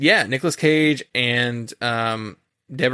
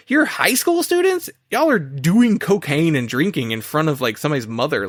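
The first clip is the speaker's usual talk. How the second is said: incredulous; 3 semitones higher than usual. Retold or imitated. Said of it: "And I'm like".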